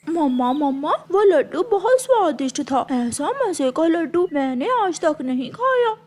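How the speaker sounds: put-on tearful child begging his mother; whimpering and sobbing a little as he pleads; whiny crying. Young crow whining for more laddoos. (रोते हुए बच्चे की आवाज़)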